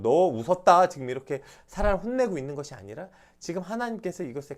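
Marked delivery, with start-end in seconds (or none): 0.0-0.9 loud mock scolding; scolding demo. Shown as a demonstration. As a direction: bark the words as a mock rebuke. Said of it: "좀 혼내려고". (혼내려는 듯 큰 소리로 꾸짖는 시범)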